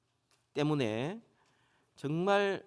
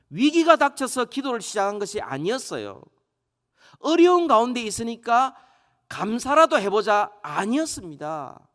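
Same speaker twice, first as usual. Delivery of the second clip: loud, raised-pitch sermon emphasis; forceful preaching; 7 semitones higher, 8 dB louder than usual. Acted. Preacher correcting the congregation's idea of Daniel's prayer, forceful preaching. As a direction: drive the point home at full pulpit volume.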